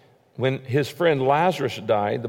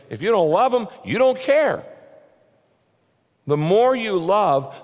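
rising preacher fervor; 4 semitones higher than usual. Acted. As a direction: preach it harder and harder. Preacher builds to a loud peak.

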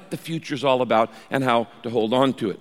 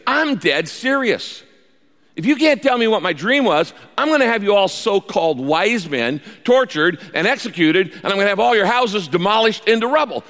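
raised, high-pitched mock fury at the wise men; furious king; 6 semitones higher than usual. The furious king threatening his wise men, high mock-angry voice. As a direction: threaten them like a raging king. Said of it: "this made Nebuchadnezzar furious".

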